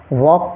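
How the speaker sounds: वॉक with no L before the k; silent L. Shown as a demonstration. Teacher showing students how to read walk, वॉक without any L. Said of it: "इसमें एल silent है".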